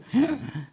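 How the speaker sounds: a short, sharp gasp of fright; frightened gasp. Retold or imitated. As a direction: gasp as if just caught out. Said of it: "Tal vez dijeron". (jadeo breve de susto)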